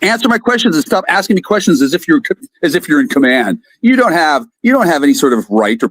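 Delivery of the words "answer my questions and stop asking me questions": angry outburst. Acted. Yelling at the questioner, furious. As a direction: bite his head off in rage.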